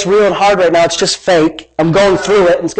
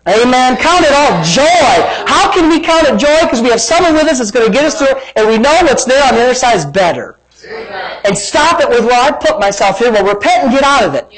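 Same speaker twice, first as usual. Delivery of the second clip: raised, excited sermon voice; fired-up preaching; 5 semitones higher than usual. Real, not acted. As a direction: preach the verse with rising zeal. Preaches at full force.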